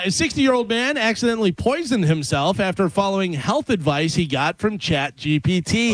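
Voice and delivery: measured radio news read; deliberate read-aloud cadence; news item read. Acted. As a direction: read the odd story out to listeners.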